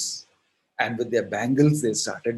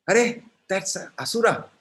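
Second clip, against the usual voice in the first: indignant protest; 7 semitones higher than usual. Acted. Krishna protests his innocence.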